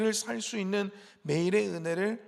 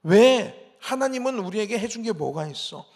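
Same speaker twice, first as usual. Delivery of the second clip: imitated grumbling, pushed louder and higher; scornful complaint; 3 semitones higher, 4 dB louder than usual. Israelites belittling the food God gave, mock scornful complaint. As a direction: act out ungrateful protest. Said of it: "이렇게 얘기합니다".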